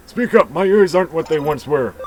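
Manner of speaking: put-on high, loud cranky old-timer yell; loud old shout. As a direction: holler like a half-deaf old man. Hard-of-hearing old man shouts.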